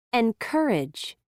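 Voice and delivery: "Encourage" with a puff of air on the k sound; "Encourage" with a strongly aspirated k. Shown as a demonstration. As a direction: release the c in "Encourage" with extra breath. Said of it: "with an extra puff of air".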